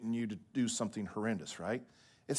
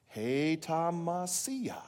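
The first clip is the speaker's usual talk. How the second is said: very drawn-out "Hei ta ma sia", pitched higher; slow group recitation; 5 semitones higher, much slower than usual. Shown as a demonstration. Preacher leading congregation in saying it together, very slowly. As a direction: stretch "Hei ta ma sia" so a crowd can join in. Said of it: "Let's say it together".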